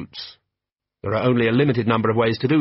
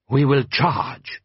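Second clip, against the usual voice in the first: very slow, proud warrior; Jabbar's voice; 3 semitones higher, much slower than usual. A narrator's reading. Jabbar announcing the dawn charge, slow and proud. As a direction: let each word land.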